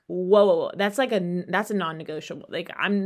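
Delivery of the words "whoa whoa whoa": startled whoa. Retold or imitated. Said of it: "I'm like".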